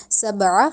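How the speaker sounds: سبع slowly, the ع pushed from the throat; throaty ain. Shown as a demonstration. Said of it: "ہم نے اس کو سبع نہیں کہنا".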